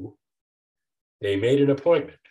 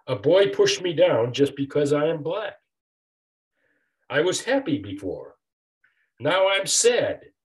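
put-on a touch of a child's tearful plea, slowing on the last words; mildly voiced boy near tears, higher at the end; crying child; 4 semitones higher than usual. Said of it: "cried brave Jack".

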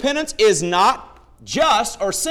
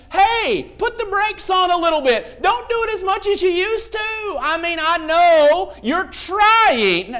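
gentle lenient God; 8 semitones higher, slower than usual. Pretend. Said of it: "God is not just saying".

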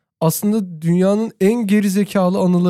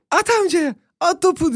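high-pitched imitation of calling for the ball; seslenme taklidi; 11 semitones higher than usual. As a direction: call out high and eager, as a quote. Çocuk Uzay'a sesleniyor, retold. (tiz sesle seslenme taklidi)

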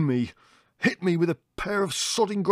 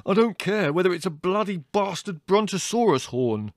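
snarled; 10 semitones higher, 4 dB louder than usual. Acted. Brother to young naturalist, snarling over horn species. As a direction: snarl every word at him.

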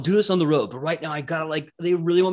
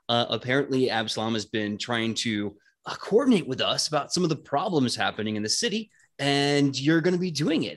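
pious chaplain bro. Acted. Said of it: "Quentin looks at everyone and goes".

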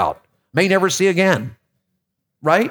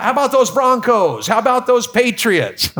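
sports fan greeting; 5 semitones higher than usual. Retold or imitated. Mimicking sports small talk.

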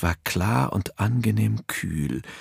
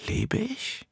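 ghostly whisper; 9 dB quieter than usual. A narrator's reading. Unwesen laughs at the question.

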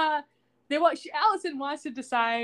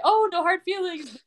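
high, drawn-out false sweetness; mock sucking up; 8 semitones higher than usual. Planner tries to kiss up to Jane, mock ingratiating. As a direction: gush it slowly, imitating a flatterer. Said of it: "kiss up to Jane".

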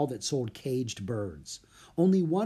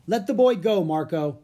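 firm command; 5 semitones higher, 6 dB louder than usual. A narrator's reading. Leonardo commands.

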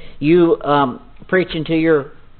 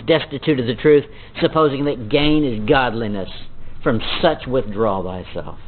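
a little dramatic reading. Shown as a demonstration. Preacher reading the heretics passage to the congregation, a little dramatic. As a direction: read Paul's warning with some gravity. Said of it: "I read that a little dramatic".

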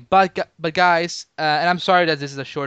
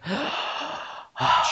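gasp; 4 semitones higher, 6 dB quieter than usual. Acted. Breathless list of trailer action.

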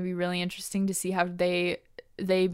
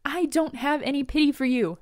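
snapping; 3 semitones higher than usual. Retold or imitated. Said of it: "Nia snaps again".

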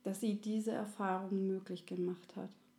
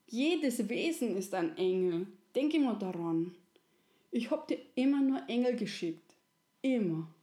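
lightly voiced wise elder, firm; gently insist, like a loving creator; Resi; 4 dB louder than usual. Resi reminds the little soul, lightly voiced and firm. Resi interrupts the two souls.

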